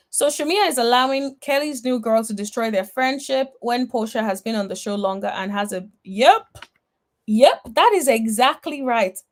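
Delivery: ordinary delivery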